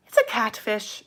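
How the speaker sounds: put-on a faint try at a British accent that slides Irish; lightly hint at a British accent, landing Irish; attempted British accent. In Britain they call it a catfish, faint Irish-tinged accent. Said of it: "That's an Irish accent".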